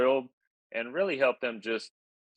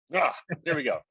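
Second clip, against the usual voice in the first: radio DJ voice; 6 semitones higher, faster than usual. Shown as a demonstration. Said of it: "you've got the radio D J voice".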